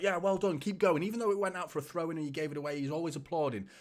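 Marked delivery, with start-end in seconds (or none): 0.0-1.0 a light take on a manager clapping from the touchline, higher and louder; Pep Guardiola encouraging. Retold or imitated. Pep on the touchline to his player, loud mock encouragement. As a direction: cheer a player on after a misplaced pass. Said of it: "Pep Guardiola's like".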